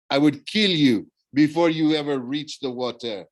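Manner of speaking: lightly voiced villain's threat; menacing villain. Thorne threatens the children.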